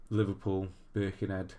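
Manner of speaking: badly faked Scouse accent; half-hearted stab at Scouse; terrible Scouse attempt. Shown as a demonstration. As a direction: try the place names in Scouse. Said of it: "uh, that was terrible".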